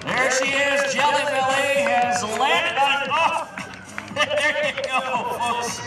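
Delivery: thrilled announcer, drawn out; excited. Real, not acted. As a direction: call the landing with real excitement. Plane lands on motorhome.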